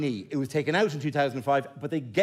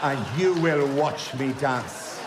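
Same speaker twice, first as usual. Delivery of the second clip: slowing into a laughing, drawn-out threat; scene: father threatens daughter with dancing, laughing; laughing mock threat; slower than usual. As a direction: savour the absurd threat while laughing. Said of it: "is to go".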